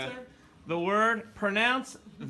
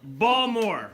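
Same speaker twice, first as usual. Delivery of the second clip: Baltimore said as Balmer, laughing; Baltimore accent; 2 semitones higher than usual. Retold or imitated. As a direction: repeat it Balmer, amused. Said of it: "B A L M E R".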